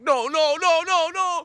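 loud, high repeated no; hammed-up exasperated refusal; fed-up no. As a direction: refuse flatly and loudly. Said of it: "you just are going like".

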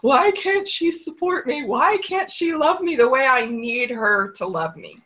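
high, pleading cry of hurt; tearful plea. Retold or imitated. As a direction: beg to be loved, voice rising high. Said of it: "I would call my friends in tears".

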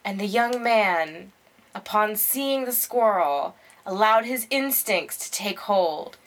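slow, measured documentary narration; nature documentary narrator. Pretend. Co-host narrating friend's squirrel escape, mock nature documentary. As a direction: narrate it gravely, with deliberate pauses. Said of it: "like, a nature documentary".

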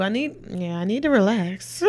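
drink at the lips; while sipping a drink. Real, not acted. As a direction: talk around a sip. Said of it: "I'm drinking some more relax".

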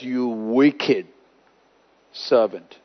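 low, soft, grave rebuke; stern rebuke. Retold or imitated. God condemns the ungrateful servant, low and grave. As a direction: drop the voice to condemn. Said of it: "and he says".

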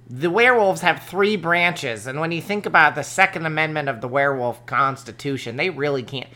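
a hint of a political commentator; Ben Shapiro impression. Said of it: "It's a good Ben Shapiro impression".

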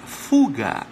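Fuga low, in an odd altered voice; low voiced word. Shown as a demonstration. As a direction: repeat Fuga low and strange. (Fuga grave, com voz alterada)

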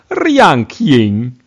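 Ranking as Rjanking, a J slipped in; Russian accent, J glide in Ranking; russian accent in german. Shown as a demonstration. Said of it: "man muss einfach in jede Silbe ein J einbauen".

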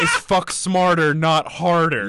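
slow, through laughter; laughing. Real, not acted. Friend retelling the sauna joke, laughing. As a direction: laugh out the punchline, slowly.

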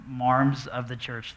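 "marms" with a long open R, slow and drawn out; New England accent. Shown as a demonstration. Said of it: "That's a New England accent".

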